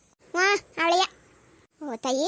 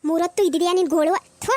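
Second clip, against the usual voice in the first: louder exasperated jab; fed-up scold; 3 semitones higher, 4 dB louder than usual. Acted. Mother-in-law fed up with daughter-in-law's headache, loud scold. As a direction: snap at her endless whining.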